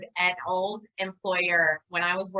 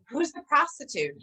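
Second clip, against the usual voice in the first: shocked boss; 6 semitones higher than usual. Retold or imitated. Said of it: "she goes".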